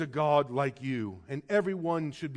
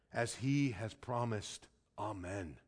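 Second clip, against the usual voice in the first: hushed amen; 8 semitones lower, 11 dB quieter, slower than usual. Acted. Reading ends with Amen.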